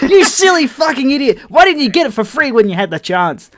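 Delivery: high, loud mock scolding of himself; his own brain yelling at him, hammed-up; inner voice scolding. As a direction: bark at yourself like an angry inner critic. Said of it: "that part of my brain is like".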